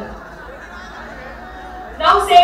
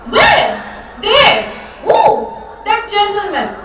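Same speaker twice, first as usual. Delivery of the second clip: excited squeals; 3 semitones higher than usual. Acted.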